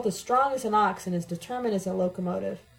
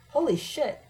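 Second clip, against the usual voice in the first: shout; 6 semitones higher than usual. A narrator's reading.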